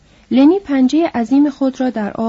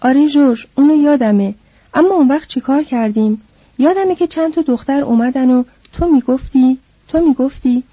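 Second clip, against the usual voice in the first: put-on higher, louder childlike voice; simple man eagerly remembering; Lenny eagerly answers George, higher and louder; 4 semitones higher, 3 dB louder than usual.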